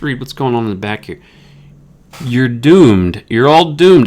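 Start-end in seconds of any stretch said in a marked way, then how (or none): 2.2-4.1 put-on loud ominous old man warning; doom-laden creepy old man; creepy old guy. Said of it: "that's a quote for the, that creepy old guy".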